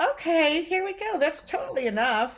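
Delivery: high, pleased inner voice; a voice in your head saying enough; sated brain voice. Retold or imitated.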